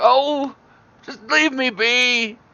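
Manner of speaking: put-on very high, very slow elderly voice. Telling the story, the speaker voices the old man answering the hooligans, old man voice. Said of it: "And he's and he's just like".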